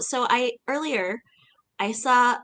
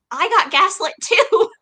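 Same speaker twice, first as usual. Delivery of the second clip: higher, amused baffled voice; baffled disbelief; 10 semitones higher, 4 dB louder than usual. Retold or imitated. Retelling being fooled by the glass scene, high amused bafflement. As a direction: sound tricked and amused. Retold confusion, laughing.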